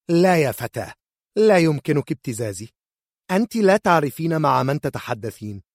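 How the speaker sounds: high, loud commanding warning; mother threatening the young healer; haughty refusal. Acted. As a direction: put the girl in her place.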